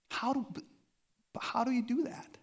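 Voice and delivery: high whispered wondering; hushed question. Pretend. Pastor voicing the congregation's puzzled question, whispered.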